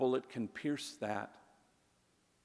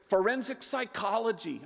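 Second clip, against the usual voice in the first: quick; 9 semitones higher, 5 dB louder than usual. Retold or imitated. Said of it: "she was very quick".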